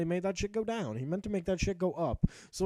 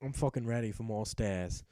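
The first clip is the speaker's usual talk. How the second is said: voicing Hrothgar low; 9 semitones lower than usual. Narrator voicing his knight Hrothgar before the stairs, low. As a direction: voice pitched well down for the knight. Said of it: "and he was like".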